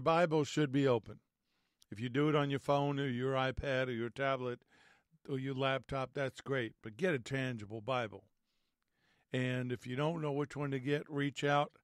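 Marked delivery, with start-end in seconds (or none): none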